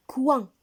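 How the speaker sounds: Coin said clearly and loud for the class; model word. Shown as a demonstration. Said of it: "On répète".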